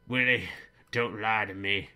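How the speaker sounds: stern scolding. Retold or imitated. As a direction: bark at the son not to lie. Father scolding son.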